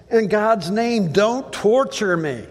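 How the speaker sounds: a preacher voicing the terrified demon; begging demon. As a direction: beg in the demon's voice. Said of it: "he says".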